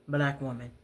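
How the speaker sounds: ordinary talk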